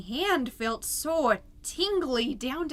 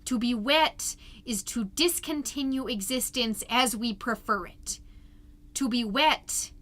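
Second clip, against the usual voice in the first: solemn reading. Acted. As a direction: read it like a profound essay.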